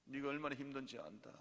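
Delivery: soft, comforting inner voice; God consoling. Acted. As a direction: lightly act out quiet reassurance. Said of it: "마음에 감동 주십니다". (나직이 위로하는 하나님 목소리)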